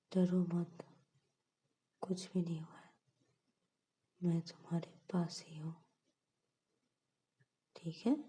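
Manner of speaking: hushed, soothing near-whisper; calm her down gently; soft comfort. Acted. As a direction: Ananya wipes Payal's tears, whispering comfort. Comforting crying friend at night.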